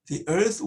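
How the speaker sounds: slow reading, "The earth" begun as 'dee'; "The" as 'dee' before a vowel. Shown as a demonstration. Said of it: "더가 아니고 D입니다". ("The"를 모음 앞에서 '디'로 발음)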